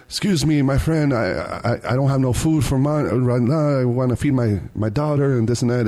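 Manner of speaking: lightly imitated Eastern European accent; pleading in a mock Ukrainian accent; Polish or Ukrainian accent. Driver begging food money for his daughter, mock Eastern European accent. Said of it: "Polish or Ukrainian accent".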